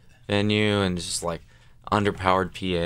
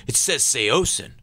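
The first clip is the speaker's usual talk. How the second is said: annoyed insistence; 6 semitones higher, 3 dB louder, slower than usual. Retold or imitated. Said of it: "guitar players get really mad".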